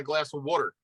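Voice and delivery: WATER as "wooder"; local "water". Shown as a demonstration. Guest gives an example, glass of WATER as "wooder". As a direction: say WATER with a "wood" vowel. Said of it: "but I say water".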